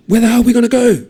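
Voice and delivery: fast, loud, high demand. A narrator's reading. Tama demanding an answer from Taiwo, fast and loud. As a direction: snap it at the others in panic. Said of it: "Tama demands".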